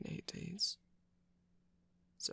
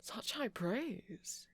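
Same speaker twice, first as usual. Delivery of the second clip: dry sarcasm; 5 semitones higher, much slower than usual. Acted. Dry reply to Oscar.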